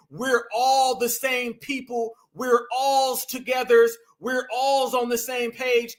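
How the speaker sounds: slow, mocking parody of her unity talk; slow, sarcastic mimicry of her message; mocking singsong. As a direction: drag it out slowly like a sarcastic parody. Mocking what she's trying to say.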